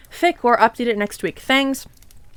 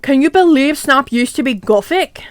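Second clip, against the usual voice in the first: louder, rising surprised question; 2 semitones higher, 4 dB louder than usual. Shown as a demonstration. Vampire asking friends in surprise, louder and rising. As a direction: ask it amazed. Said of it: "asked surprisedly".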